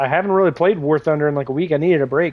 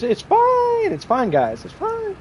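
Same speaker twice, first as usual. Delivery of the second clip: higher, half-hissed "it's fine" like a sloshed buddy; mock hissing drunk; slower than usual. Teasing a drinking friend, mock hissing it's fine. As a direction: wave it off in a put-on tipsy hiss. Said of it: "he's just gonna hiss with his".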